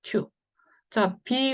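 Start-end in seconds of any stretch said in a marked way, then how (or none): 0.0-0.3 튜 said with a "yoo" vowel; long-u demonstration. Shown as a demonstration. Teacher reading the letters for learners, long-u demonstration. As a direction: read 튜 as one "tyoo" sound. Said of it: "유로 읽어보죠".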